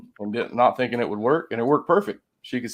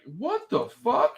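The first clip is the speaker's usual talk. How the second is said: high, slow, drawn-out disbelief; stunned what the fuck; 11 semitones higher, slower than usual. Retold or imitated. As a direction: let the shock stretch each word out. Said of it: "I'm just like".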